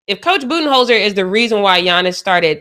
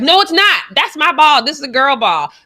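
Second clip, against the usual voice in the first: mimicking KD; 7 semitones higher than usual. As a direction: squeak it out like a touchy KD. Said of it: "And he's like".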